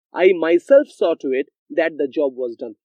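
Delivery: "I myself" said firmly, with emphasis on myself; stress on myself. Shown as a demonstration. Teacher demonstrating an emphatic claim, stress on "myself". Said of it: "I want to put emphasis on what I am saying".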